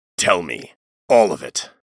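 low, growled, demanding delivery. Locked face to face with his opponent, the commander growls his demand. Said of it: "the commander growled".

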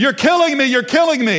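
put-on very high, loud, pained child's screams. Parent digging something out of son's foot, imitating son screaming. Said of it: "he starts screaming".

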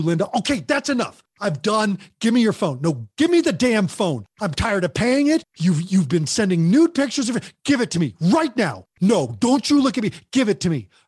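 harsh, furious, angry scolding voice. Speaker shows the wrong way to take a phone from a teen, angry scolding. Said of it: "What I care about is how you do it".

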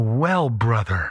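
sanctimonious pious tone. Showing how we address a brother, lowered, holier-than-thou voice. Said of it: "lower our voice and we want to sound really holier than thou".

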